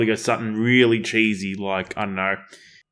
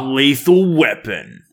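slow trailer read, breaking into laughter; movie trailer voice; 5 dB louder, slower than usual. Acted. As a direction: try the trailer voice but crack up. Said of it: "do it with the movie voice as well".

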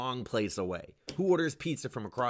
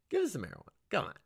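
high whiny plea; 8 semitones higher, much faster than usual. Acted. Pleading for weed.

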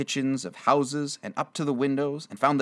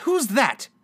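high, loud startled question; startled nephew calling out; astonished cry; 12 semitones higher, 5 dB louder than usual. Acted. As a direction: demand who it is in surprise. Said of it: "cried Fred".

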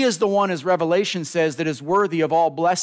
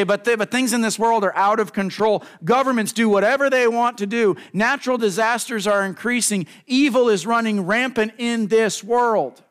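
higher, louder voice of a worried doubter; anxious objector; 9 semitones higher, 4 dB louder than usual. Pretend. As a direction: voice the listener's alarmed protest. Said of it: "You say".

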